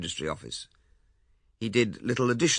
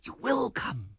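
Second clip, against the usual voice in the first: high, elated and certain; triumphant; 12 semitones higher, slower than usual. A narrator's reading. Lewisham sure Ethel will elope, triumphant. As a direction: claim your victory. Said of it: "cried Lewisham triumphantly".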